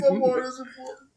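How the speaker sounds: laughing while talking. Real, not acted. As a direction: giggle through the words. Laughing playful claim.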